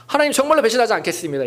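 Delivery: earnest vow. Retold or imitated. Worshipper promising God never to betray him, fast and eager. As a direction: rattle off a fervent pledge.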